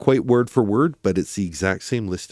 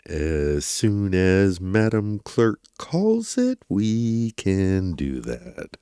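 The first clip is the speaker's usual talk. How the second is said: slow, smooth radio DJ delivery; morning radio DJ voice; much slower than usual. Retold or imitated. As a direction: stretch each word out like a DJ. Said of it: "I really like the way that Judge Craddock said it".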